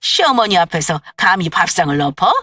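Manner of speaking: appalled at her nerve; indignant mother-in-law shouting; furious mother-in-law. Acted. Mother-in-law furious at upturned table.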